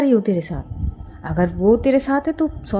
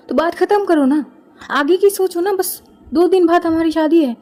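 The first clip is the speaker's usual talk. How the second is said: high, loud, exasperated insistence; raising his voice; 5 semitones higher, 4 dB louder than usual. Acted. Fiancé loudly dismissing his bride's distress, exasperated. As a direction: bulldoze her worries, loudly. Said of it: "इतनी ज़ोर से भी बोलने की कोई बात नहीं है".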